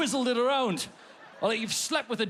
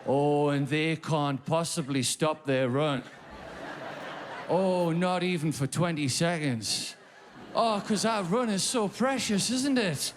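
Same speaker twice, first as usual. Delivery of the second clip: mocking sarcasm. Mocking runners who won't stop.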